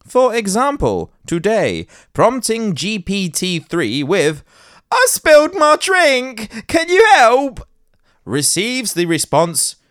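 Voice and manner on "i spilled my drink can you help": high put-on voice. Quoting a user prompt to AI.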